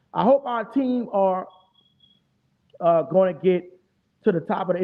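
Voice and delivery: reading a fan comment slowly. Retold or imitated. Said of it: "Ain't no hoping".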